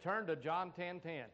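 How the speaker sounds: slow, deliberate instruction, quoted; plain-spoken command. Retold or imitated. Preacher retells the Lord speaking to him, slow and plain. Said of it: "spoke to me just as plain as I'm talking right now".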